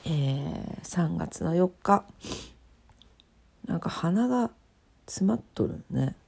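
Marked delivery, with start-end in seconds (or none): 3.7-6.2 blocked-nose speech; nasal voice. Real, not acted. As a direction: talk through a stuffed nose.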